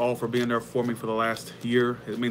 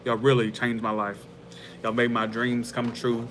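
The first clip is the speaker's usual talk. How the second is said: teary-eyed; slower than usual. Real, not acted. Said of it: "I'm getting kinda teary-eyed".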